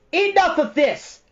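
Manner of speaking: high, loud furious cry; cried in rage. A narrator's reading. Bastian, purple with rage, cutting off Atreyu. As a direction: explode at him. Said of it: "cried Bastian, purple with rage".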